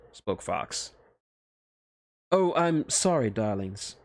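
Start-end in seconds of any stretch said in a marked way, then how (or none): 2.3-4.0 slow, higher, teasing witch. Acted. Witch teasing Fox, slow higher voice. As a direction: drawl it like a playful witch. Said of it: "spoke the witch".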